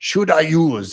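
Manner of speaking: fake French accent. Repeating a question from someone who said bonjour: put-on French accent. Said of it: "I'm just using the accent".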